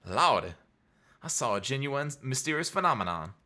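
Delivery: lightly put-on American Southern accent. Lotta tells of the phenomenon, light Southern accent. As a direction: kick in a Southern accent on "Lordy". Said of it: "kick in a southern accent".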